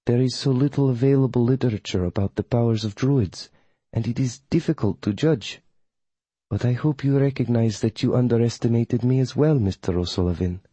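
lightly voiced formal coven witch. Voices coven witch Melina in dialogue.

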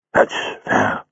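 That's fair breathed out as a low, faltering whisper; fading whisper. Acted. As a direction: let fair die away to nothing. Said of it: "Jago's voice faltered and died away".

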